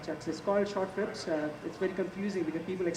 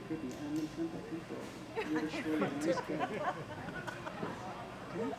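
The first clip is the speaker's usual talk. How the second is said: quiet parental aside; 3 semitones lower, 8 dB quieter than usual. Real, not acted. Aside to child before audience.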